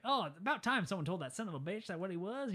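a hint of a folksy grandpa. Townsfolk praising Mister Eastwood, lightly imitated grandpa voice. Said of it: "they're all talking like grandpa".

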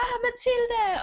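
high, eager crowd call; excited calling out. Retold or imitated. Fans calling after Mathilde, high and eager. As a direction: call her name like a star-struck fan.

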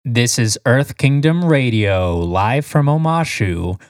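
lightly nerdy radio announcer; nerdy newscaster voice. Pretend. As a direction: play a nerdy news anchor, slow. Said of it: "Why is your newscaster voice so nerdy?".

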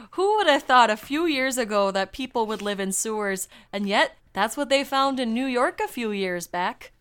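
loud put-on Canadian accent. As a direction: keep up a hammed Canadian accent. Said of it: "do a Canadian accent for this".

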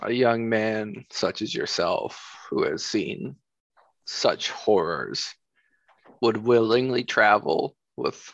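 measured, musing mage. Acted. Plays mage character.

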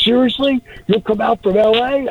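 high, excited disbelief; can't believe the offer, pitch jumping up; surprised disbelief. Retold or imitated. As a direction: kid thrilled, asking if dad will really fly in. Son surprised by promise.

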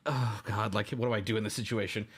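anguished muttering. Retold or imitated. Agonizing inside the stall.

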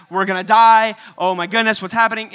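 loud sudden panic, crying out in fear; panicked disciples. Retold or imitated. Disciples in the storm, panicking and loud. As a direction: yell it like a boat about to sink. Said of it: "the disciples are freaking out".

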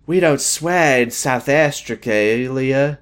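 slow, prissy little reply; prim. Retold or imitated. Quoting George to her co-host, slow and prim. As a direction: drag it out primly.

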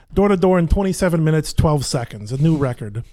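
quick Brooklyn trigger line; Brooklyn accent. Shown as a demonstration. Actor reviving an old play line, Brooklyn accent. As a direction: rattle it off in an attempted Brooklyn accent. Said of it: "that's why I said the, the door to door".

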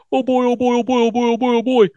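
high-pitched chant of glee, hammed up; giddy excitement. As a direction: play a cartoonishly overjoyed goof. Acting Herman's giddy excitement.

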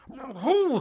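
breathless frightened whisper. Acted. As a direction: barely breathe the word. Frightened soul questions the angel.

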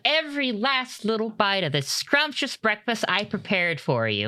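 cheerful hostess mom; doting mom voice. Acted.

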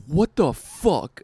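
slow, drawn-out angry outburst; a mock-offended snarl; angry what the fuck. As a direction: spit it out slowly, offended. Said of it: "legitimately pissed off".

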